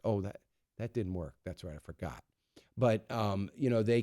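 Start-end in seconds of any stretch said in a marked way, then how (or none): 0.1-2.2 mock realization. Real, not acted. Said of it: "obviously I'm being sarcastic".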